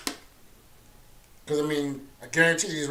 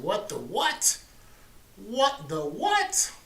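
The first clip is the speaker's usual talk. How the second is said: quoting a viewer; 7 semitones higher, much slower than usual. Retold or imitated. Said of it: "He said".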